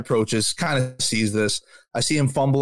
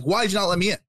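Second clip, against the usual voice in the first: higher, mildly worked-up protest; retold angry demand; 5 semitones higher, much faster than usual. Gym-goer confronting the man who refused him, mildly angry. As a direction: replay a heated question without shouting. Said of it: "angry. I'm getting aggressive".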